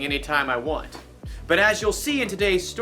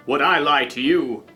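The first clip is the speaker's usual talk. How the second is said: villain voice; 3 dB louder than usual. Pretend. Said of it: "pretend to be the villain".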